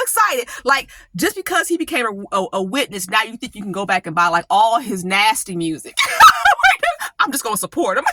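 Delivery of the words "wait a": laughing halt. Real, not acted. Laughing interruption.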